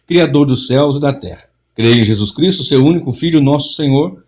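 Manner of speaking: solemn, measured liturgical reading; creed recitation. Acted. Preacher reading the creed aloud to listeners, solemn. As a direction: read it out like a congregation's confession.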